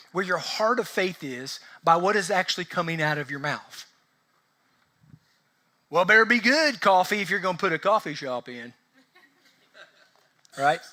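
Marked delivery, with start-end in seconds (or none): 5.9-8.7 fear talk. Retold or imitated. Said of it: "That's, that's fear talk".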